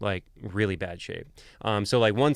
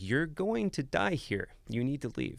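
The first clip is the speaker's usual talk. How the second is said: soft, slow, sweet but deadpan warning; 4 semitones higher, 5 dB quieter than usual. Retold or imitated. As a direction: say it sweetly with a dead straight delivery. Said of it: "in the sweetest but deadpan voice".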